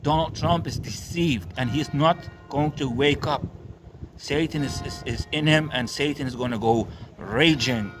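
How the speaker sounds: fiery street-preacher rant; raging sermon at the churchgoers; preaching. Real, not acted. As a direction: preach it hard at the crowd. Preaches throughout.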